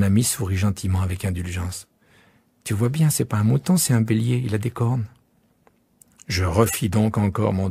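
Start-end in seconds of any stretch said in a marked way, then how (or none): 2.6-5.1 put-on lightly higher child voice; patiently pointing out the horns; child correcting a grown-up; little prince.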